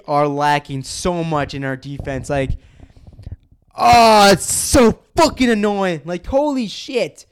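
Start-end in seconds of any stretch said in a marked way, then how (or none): 3.7-7.3 drawn-out, slow, loud and high, fed up; exasperated groan. Real, not acted. Fan venting about his team's weak defense, slow exasperated whine. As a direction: let the annoyance drag every word out.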